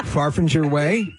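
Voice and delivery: gap-toothed f sounds; slow lisp through a missing tooth. Real, not acted. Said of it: "F's are a problem".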